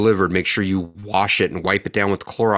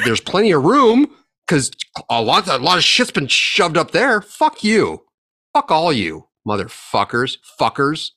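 higher, rising into an outraged yell; furious rant; 5 semitones higher than usual. Real, not acted. Ranting podcaster telling politicians where to stick amnesty, outraged. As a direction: spit it out at the politicians.

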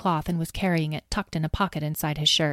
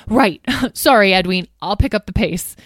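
sheepish laugh; 3 semitones higher, 7 dB louder than usual. Acted. Apologising to bossy Edwene.

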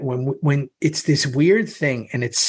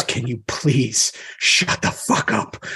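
stern hushed rebuke; 3 semitones lower, slower than usual. Retold or imitated. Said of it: "And he goes".

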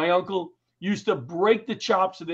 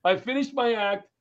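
ordinary talk

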